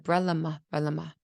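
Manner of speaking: "Brelama", brel-a-ma, sounds reversed from umbrella; child's swapped sounds. Shown as a demonstration. Imitating a child with autism saying "Brelama". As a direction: say "Brelama" with syllables moved round, like a small child. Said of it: "So instead of umbrella, she said".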